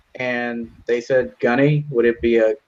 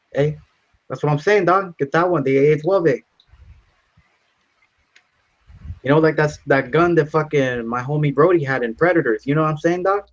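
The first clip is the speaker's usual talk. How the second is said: higher, hammed-up cholo voice; mock cholo; 4 semitones higher than usual. Pretend cholo insisting on the AA-12 at the counter, hammed up.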